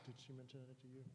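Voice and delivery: muffled, far from the mic; muffled as if through a wall. Real, not acted. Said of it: "You sound muffled".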